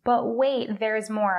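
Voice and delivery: hyped TV pitchman; infomercial voice. Acted. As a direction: sell it like a late-night infomercial. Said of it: "I know I sound like an infomercial".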